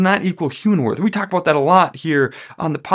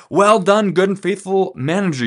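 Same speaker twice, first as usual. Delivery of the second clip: higher-pitched, mildly delighted praise; a touch of delight, pitched up; 5 semitones higher than usual. Acted. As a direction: praise them like a pleased boss. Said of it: "the owner is delighted".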